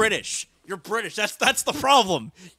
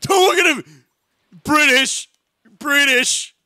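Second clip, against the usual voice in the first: high, loud playful shouting; mock alarm; 8 semitones higher, 9 dB louder, slower than usual. Player warning others off the British guy, mock-alarmed shout.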